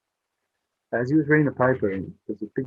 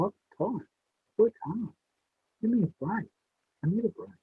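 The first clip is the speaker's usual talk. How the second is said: whiny tired dad; 11 semitones higher than usual. Retold or imitated. Tired dad whines to wife.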